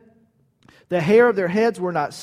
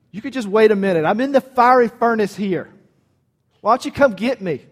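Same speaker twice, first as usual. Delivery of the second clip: cheeky brush-off; 2 semitones higher, 4 dB louder than usual. Retold or imitated. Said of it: "That would have been my response".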